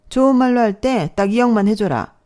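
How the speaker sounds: loud pushy demand; threatening demand. Acted. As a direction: lean in hard on the threat. Stepmother demands money threateningly.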